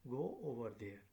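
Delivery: firm command, pitch falling on the end. Shown as a demonstration. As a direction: give the order and drop the tune at the end. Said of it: "have falling intonation".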